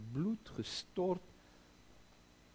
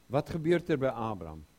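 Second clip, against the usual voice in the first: ordinary talk, nothing marked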